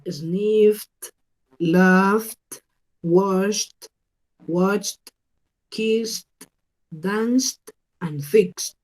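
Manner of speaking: paused word list, "sniffed" to "fixed" ending in T. Shown as a demonstration. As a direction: release a T at the end of "laughed", "washed", "kissed". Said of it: "Con ese sonido de la T al final".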